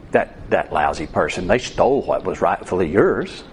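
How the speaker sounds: voice of the flesh. Acted. Preacher voicing the flesh as a low, sly tempter. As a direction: whisper it low like a tempter on your shoulder. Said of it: "You hear this voice of the flesh".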